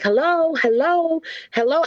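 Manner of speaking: mock calling out hello. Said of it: "yeah, I'm like".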